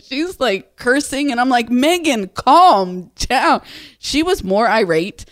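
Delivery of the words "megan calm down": higher and louder, calling her friend off; loud mock plea to calm down. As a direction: rein in a cursing friend, raised voice. Telling angry friend to settle.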